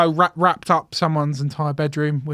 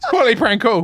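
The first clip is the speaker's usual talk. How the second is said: laughing praise; 6 semitones higher, 6 dB louder than usual. Real, not acted. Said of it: "That was pretty funny".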